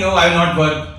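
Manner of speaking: high, quick mocking of a lazy excuse; a lazy excuse, mocked. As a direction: tease the idea of never working. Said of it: "doesn't mean".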